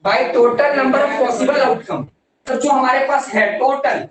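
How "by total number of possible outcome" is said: slow, each word spaced for writing; teacher reading a formula for notes; slow dictation. Shown as a demonstration.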